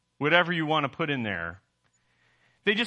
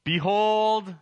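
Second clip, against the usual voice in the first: higher, drawn-out proclamation; declaring; 4 semitones higher than usual. Retold or imitated. John speaking about the greatness of God, declaring. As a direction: announce it like a herald, pitched up. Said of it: "John declares about speaking".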